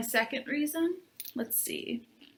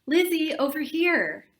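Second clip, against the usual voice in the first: higher, louder call to a friend; calling loudly; 5 semitones higher, 3 dB louder than usual. Acted. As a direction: wave her over with your voice. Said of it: "The louder she called my name".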